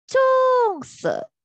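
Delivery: 棕色 high and level on 棕, then 色 drops down; flat then falling. Shown as a demonstration. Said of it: "The tone is flat and then going down".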